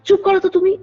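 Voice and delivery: mother hushing grandmother in a mock scold; retold scolding. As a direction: snap back to hush her, half-acted. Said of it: "একটা ধমক দিয়ে বলছে".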